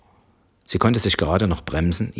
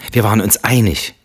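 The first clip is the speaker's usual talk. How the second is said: each word spelled out clearly, a little raised; deliberately articulated; 4 semitones higher, 5 dB louder than usual. Acted. Wife carefully articulating to husband, clear and pointed. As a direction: enunciate pointedly over the wine glass. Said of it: "artikulierte Samantha deutlich".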